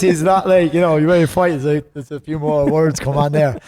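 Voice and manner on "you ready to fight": higher-pitched Dublin accent imitation; lightly put-on Dublin accent. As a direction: mimic a Dubliner asking it. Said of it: "That's a Dublin accent".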